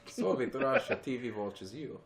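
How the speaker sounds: mock Russian accent. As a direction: put on a joking Russian accent. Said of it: "That was more Russian".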